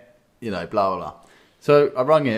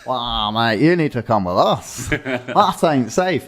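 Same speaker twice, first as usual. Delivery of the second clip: louder, hammed-up bloke, slowing on that ain't safe; mock blokey workmate; 6 dB louder, slower than usual. A workmate warning about worn brakes, louder hammed-up bloke. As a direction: play a concerned lad in the car park.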